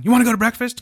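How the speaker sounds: lightly mimicked caller, pitched high; a high, rising mock invitation; imagined early caller. Friend mimics an eight o'clock breakfast call, lightly mocking high voice. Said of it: "as long as you don't call me at".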